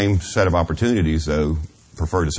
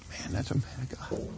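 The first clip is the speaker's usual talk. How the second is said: choked-up; 7 semitones higher, 12 dB quieter than usual. Real, not acted. Emotional memory of a godly man.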